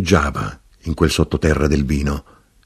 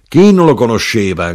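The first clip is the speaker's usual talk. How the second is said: mild shout, raised in pitch; crying out; 5 semitones higher, 5 dB louder than usual. A narrator's reading. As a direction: call it out louder, as the knife grinder. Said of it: "gridò l'arrotino".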